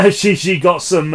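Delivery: laughing as he starts the line; a giggle at the start. Real, not acted. Reviewer laughing at the traps she suffered, laughing.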